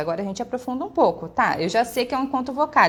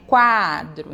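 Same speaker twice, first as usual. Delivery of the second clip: QUADRO loud, gliding from a short U up to a long A; rising onto the A; 5 semitones lower, 5 dB louder than usual. Shown as a demonstration. Teacher showing semivowel before vowel, stressed A in "Quadro". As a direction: stretch the A in "Quadro" after a quick U. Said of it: "então é uma subida".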